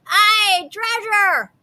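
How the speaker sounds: crew shouting. A narrator's reading. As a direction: cheer for the treasure. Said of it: "the others shouted".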